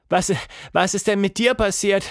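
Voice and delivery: high, halting gasped question; lightly acted breathless question; gasping. A narrator's reading. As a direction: stumble on the first word, then ask urgently. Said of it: "keuchte Tilda".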